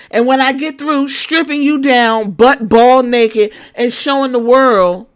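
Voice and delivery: sassy trash-talk promo; wrestling promo. Pretend. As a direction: threaten her like a heel on the mic. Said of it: "That should have been like".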